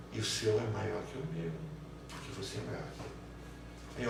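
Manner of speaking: put-on soft, slow childlike reasoning; hushed small boy working it out; child, quiet. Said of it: "Aí ele diz assim". (criança raciocinando baixinho, devagar)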